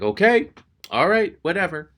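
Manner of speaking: high-pitched mock giving in; mock huffy resignation. Rental clerk giving up on the customer, mock huffy. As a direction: act out a clerk backing off. Clerk gives up after being refused.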